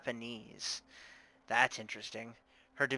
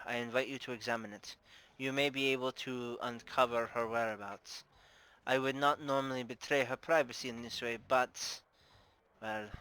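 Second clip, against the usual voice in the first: put-on formal Russian-accented madam. Bar owner reluctantly offering the missing woman's room, Russian accent. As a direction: invite them carefully, in a Russian accent. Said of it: "I'm doing a Russian accent".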